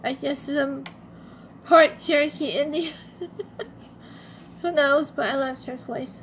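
worn, strained voice; struggling voice on a bad day; voice giving out. Real, not acted. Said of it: "my voice is terrible today".

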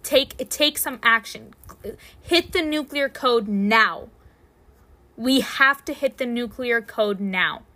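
slow, emphatic mock emergency order; voicing a toddler's desperate look as a command; urgent demand. Babysitter voicing a toddler desperate for the potty, urgent. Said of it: "Is kind of how he, the way he looked".

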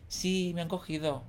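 soft, understated announcement; nonchalant. Retold or imitated. Contestant leaving the audition on camera, nonchalant. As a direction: say it softly, like it's nothing. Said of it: "rollo como sin nada".

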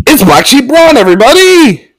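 high-pitched fake fanfare; mock announcement. Reviewer revealing Braun's double to listeners, mock announcement.

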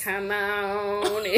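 very slow, drawn-out invitation; a hint of an old church mother; old church lady voice. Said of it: "That's how a lady at my church".

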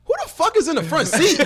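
high laughing retold yell; imitated outburst; mock angry demand. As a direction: demand it, cracking up.

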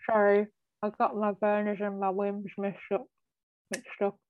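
mumbly tipsy football pundit voice. Real, not acted. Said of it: "a drunk old football pundit".

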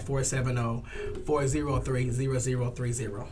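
phone number reeled off without pausing; said really fast. Real, not acted. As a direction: rattle the number off in passing. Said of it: "you said that really fast".

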